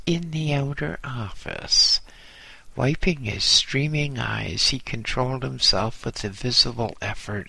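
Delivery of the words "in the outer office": raised pitch, innocent retelling; higher retold reply. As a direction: echo your innocent answer higher. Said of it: "and he says".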